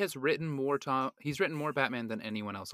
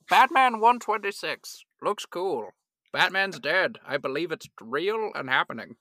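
louder, higher proclaiming voice; hammed-up announcing; 5 semitones higher, 8 dB louder than usual. Co-host moving on to comic reviews, proclaiming. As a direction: proclaim it with exaggerated emphasis.

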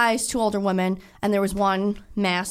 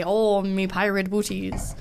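mock pirate; slower than usual. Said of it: "What do pirates say?".

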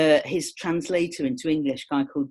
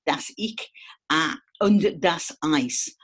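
bad German accent; slower than usual. Shown as a demonstration. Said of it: "that is the worst German accent ever".

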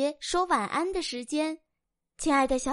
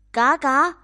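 a loud, worn-out quack; 鸭子大声嘎嘎叫; loud duck quack; 8 dB louder than usual. Acted. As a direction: quack back like an exhausted duck. Duck answers.

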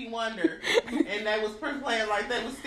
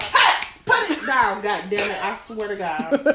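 mock mom scolding; 5 semitones lower than usual. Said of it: "practicing my mommy stuff".

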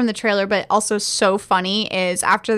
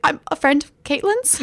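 higher retold repeat; 5 semitones higher than usual. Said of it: "he says it again when".

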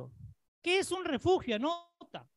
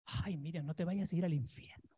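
mock pious warning; 5 semitones lower, 6 dB quieter than usual. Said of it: "Miriam, ¿está mal?".

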